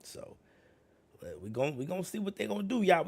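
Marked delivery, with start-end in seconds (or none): 1.8-3.0 excited. Real, not acted. Hyped repeat.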